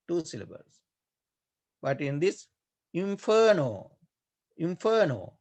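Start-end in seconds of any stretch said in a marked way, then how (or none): 2.9-5.3 "inferno" with a lengthened fer; extra-long syllable. Shown as a demonstration. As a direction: stretch the middle of "inferno", in-feer-no. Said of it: "is here three syllables".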